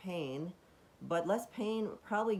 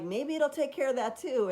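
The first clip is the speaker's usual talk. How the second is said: higher, louder burst of hope; hopeful aside; 10 semitones higher, 6 dB louder than usual. Retold or imitated. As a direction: toss it off as a sudden hopeful idea. Hopeful inner thought, retold.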